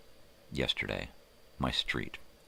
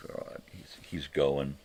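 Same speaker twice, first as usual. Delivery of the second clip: imitating daughter; 6 dB quieter than usual. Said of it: "my daughter's just like".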